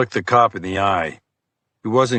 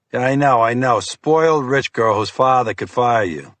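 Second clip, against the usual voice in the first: higher, impatient brush-off; lightly voiced sneering agent; dismissive FBI agent; 3 semitones higher than usual. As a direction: wave off the explanation. Fiore scoffs at detective.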